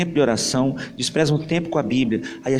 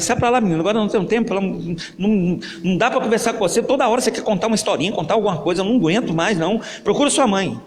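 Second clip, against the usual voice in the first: annoyed father; 5 semitones higher, faster than usual. Acted. Busy father brushing off his son, irritated and impatient. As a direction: wave the kid away, no time.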